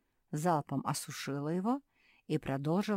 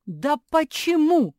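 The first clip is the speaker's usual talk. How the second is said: much higher, louder, slower; exasperated why; 13 semitones higher, 14 dB louder, slower than usual. Acted. Sister exclaiming at the puppy, high and loud. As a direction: burst out in disbelief. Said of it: "подпрыгнула Марсия".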